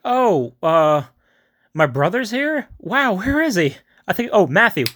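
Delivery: hammed-up gleeful disbelief; mock eager surprise. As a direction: play the brother's hopeful excitement. Soldier hears brother is here.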